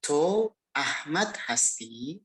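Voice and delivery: TO AHMAD HASTI drawn out, rising at the end; question intonation. Shown as a demonstration. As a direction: ask 'To Ahmad Hasti' slowly, lifting HASTI upward. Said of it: "coba perhatikan intonasi bertanya". (intonasi bertanya, 'Hasti' naik di akhir)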